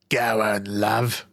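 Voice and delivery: breathy lewd whisper. Acted. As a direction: coax her in a low whisper. Lewd alien coaxing.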